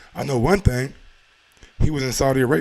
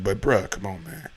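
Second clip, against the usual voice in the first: ordinary talk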